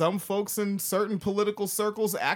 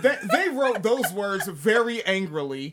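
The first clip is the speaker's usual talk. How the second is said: amused, laughing through the remark; 4 dB louder than usual. Real, not acted. Co-host ribbing the quoted author's rant, laughing.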